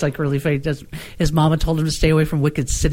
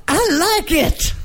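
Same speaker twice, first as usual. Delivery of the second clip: slow pleased voice; 10 semitones higher, much slower than usual. Retold or imitated. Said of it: "He says".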